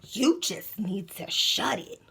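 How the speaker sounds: slow whispered put-down; guard's hushed dismissal, slow; slow cold whisper. Retold or imitated. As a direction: hush her coldly.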